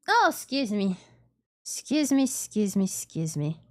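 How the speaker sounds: interrupted by hiccups. Real, not acted. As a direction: say it while hiccuping. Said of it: "I've got the hiccups".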